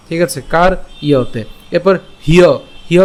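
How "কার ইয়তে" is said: "কার ইয়তে" as kar, then iya-te; split pronunciation. Shown as a demonstration. Teacher explaining the y sound, careful split "কার ইয়তে". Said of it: "ইয়র মতো হবে".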